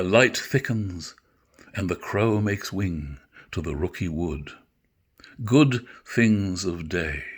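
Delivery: slow, weighty Shakespeare delivery, sinking to a hush; dramatic verse recitation. Acted. Actor reciting Macbeth to his listeners, slow and weighty. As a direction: let the dark lines settle and fade.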